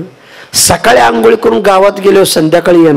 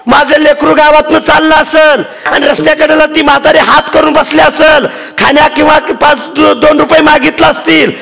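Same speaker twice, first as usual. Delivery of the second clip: put-on scolding old woman; 11 semitones higher than usual. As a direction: shout her down high and indignant. Old woman scolds daughter-in-law.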